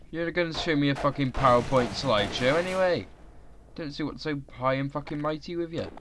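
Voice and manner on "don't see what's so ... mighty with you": 1 mock Welsh accent. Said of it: "I went a bit Welsh then".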